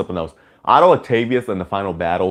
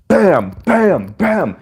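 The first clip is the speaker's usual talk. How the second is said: punch sounds; 9 semitones higher, much slower than usual. Retold or imitated. Acting out punches in fight.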